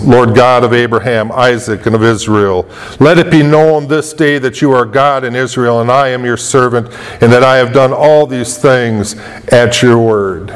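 lightly voiced solemn prayer, pitched low. Elijah calling on the Lord before the altar, praying.

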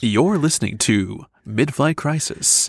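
slow, smooth radio host intro; smooth announcer voice. Acted. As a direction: glide through it like a radio promo. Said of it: "That's pretty smooth".

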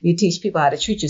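quick, laughing motto. Shown as a demonstration. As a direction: say it through a laugh. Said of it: "You taught me that".

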